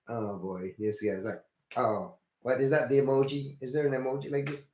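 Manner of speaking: muttered exasperation. Retold or imitated. Inner exasperated thought.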